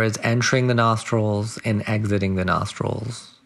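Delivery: unhurried meditation guide, long pauses between phrases; guided meditation. Acted. Guide settling listeners into body and breath, measured meditation voice. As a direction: guide them gently into stillness, phrase by phrase.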